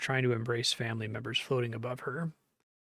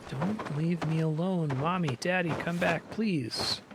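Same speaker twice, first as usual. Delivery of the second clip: slow, higher, drawn-out begging; slow mournful calling to Mommy and Daddy; desperate plea; 4 semitones higher, slower than usual. Acted. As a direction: call out to parents who are leaving. Dying girl calling for parents.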